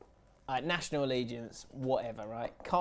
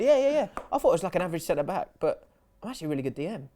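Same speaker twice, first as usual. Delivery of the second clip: mock eager reply; 3 semitones higher, 3 dB louder, much faster than usual. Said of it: "I went".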